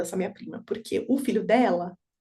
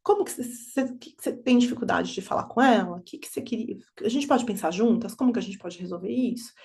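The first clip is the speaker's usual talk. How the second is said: suave e calma, voz que convida; mãe acolhedora. Retold or imitated. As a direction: acolha a filha com calma. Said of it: "Eu falo". (mãe conversando com a filha, suave e acolhedora)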